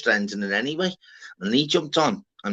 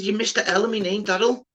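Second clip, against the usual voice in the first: higher, put-out protest; indignant complaint; 9 semitones higher than usual. Retold or imitated. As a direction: protest the misspelt name. Retold complaint about name spelling.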